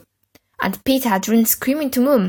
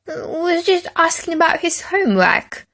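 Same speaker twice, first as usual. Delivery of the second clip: innocent protest; 8 semitones higher than usual. A narrator's reading. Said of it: "protested Henry innocently".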